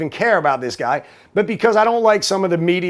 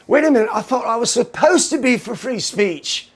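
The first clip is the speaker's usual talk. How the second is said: higher put-on voice, mock protest; objecting minion; 6 semitones higher than usual. Minion questioning the host about free speech, mock bewildered. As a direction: play a puzzled follower objecting.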